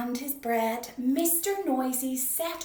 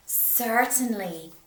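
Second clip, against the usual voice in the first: pleased; 7 dB louder, slower than usual. Acted. Baker smiling.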